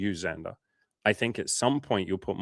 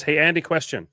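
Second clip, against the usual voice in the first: higher, louder announcing read; reading a chat question in a higher, louder voice; reading a question aloud; 6 semitones higher, 6 dB louder than usual. Retold or imitated. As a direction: read out the viewer's question brightly. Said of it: "K two one five says".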